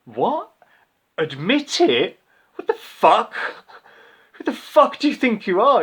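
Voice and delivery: retelling his own outraged comeback, yelled high and loud; furious shout. Retold or imitated. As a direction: blow up at the accusation. Retold furious retort to kid.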